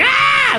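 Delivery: high imitated shriek; terrified scream. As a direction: shriek it like the scared dude. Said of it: "that dude that's always going".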